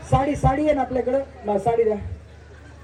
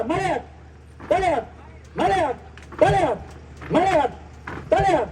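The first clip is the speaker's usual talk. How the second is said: rhythmic game calls; 6 semitones higher, slower than usual. Real, not acted. Host calls game commands fast.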